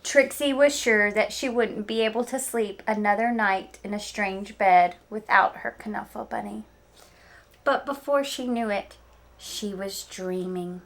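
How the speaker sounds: lively read-aloud storytelling; story narration. Acted. Teacher reading Knuffle Bunny to her students, storytelling voice. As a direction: tell it like story time for kids.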